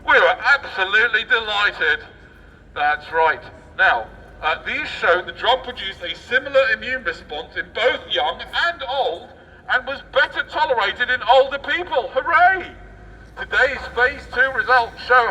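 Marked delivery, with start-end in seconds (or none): 0.1-2.0 mock bosses gloating. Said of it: "the bosses of AstraZeneca as they looked". 12.1-12.7 sarcastic hooray. Acted. Sarcastic cheer at news.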